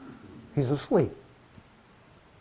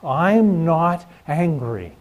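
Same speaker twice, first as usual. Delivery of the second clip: slow, louder "I'm not angry", each word pushed out; retold scream; 5 dB louder, much slower than usual. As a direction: snap back a defensive, drawn-out denial. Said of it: "And I scream at him".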